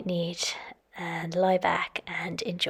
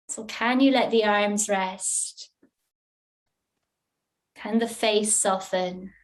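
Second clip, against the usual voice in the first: guided relaxation. Real, not acted. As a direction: ease them into rest, leaving long pauses.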